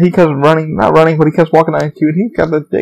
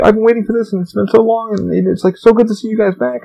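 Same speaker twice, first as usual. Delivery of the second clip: higher-pitched imitation of an overcome guest; retold happy weeping; 6 semitones higher than usual. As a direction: mimic a tearful fan without really crying. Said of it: "He started, like, weeping".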